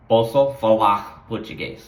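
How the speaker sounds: posso falar português with h-like r in falar; Portuguese r. Shown as a demonstration. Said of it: "it's got an H sound".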